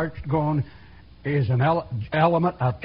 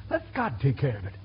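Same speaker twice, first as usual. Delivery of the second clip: soft, lower "Let God take care of it"; quiet; 6 semitones lower, 6 dB quieter than usual. Real, not acted. Preacher's quiet closing advice.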